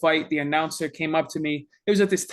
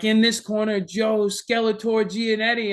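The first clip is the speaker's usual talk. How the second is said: lightly voiced ring announcer, raised pitch; mock ring announcer; 4 semitones higher than usual. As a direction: stretch out the fighter's name slowly like an announcer. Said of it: "They're announcing me".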